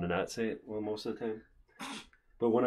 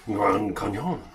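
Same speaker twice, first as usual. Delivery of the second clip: imitating the fake French accent; mock French accent; slower than usual. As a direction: echo it with a French lilt. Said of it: "In French, that's".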